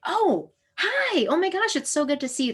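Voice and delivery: high, fast, gushing greeting; delighted reunion. Pretend. Speaker imagining meeting an old friend on a city street, high gushing delight. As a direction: spot an old friend across a busy street.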